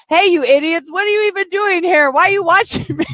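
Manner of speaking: hammed-up shock-jock greeting; shock jock alter ego. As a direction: play a brash alter ego ribbing the audience. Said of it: "turn your alter ego and go".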